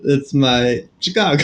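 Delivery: mock Chicago accent through a laugh. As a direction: redo the Chicago bit, giggling. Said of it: "Do it again".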